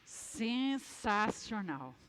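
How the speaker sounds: sarcastic. Retold or imitated. People's sarcastic reaction.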